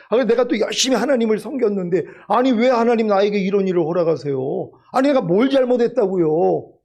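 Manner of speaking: mildly acted grievance, questioning God; 따지는 말투. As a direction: plead the case like an aggrieved believer. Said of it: "따지는 마음". (억울해서 하나님께 따지는 듯한 말투)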